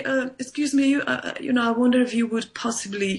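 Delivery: hesitant, overly polite asking; mock-timid excuse me, all ums and uhs; timid polite request. Shown as a demonstration. A polite speaker timidly asking an annoying relative to stop. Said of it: "you don't say".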